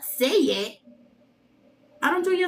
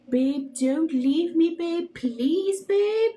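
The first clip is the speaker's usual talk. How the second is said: mock pleading, rising higher toward the end; slow pretend plea climbing in pitch; imitated tearful plea; 4 semitones higher, much slower than usual. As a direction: beg like the crying boy, half-hearted. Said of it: "The boy crying video that went viral".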